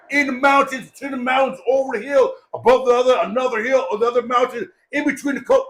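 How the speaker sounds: high-pitched comic listing; exaggerated endless directions. Speaker mocking the winding route to the funeral, high exaggerated listing.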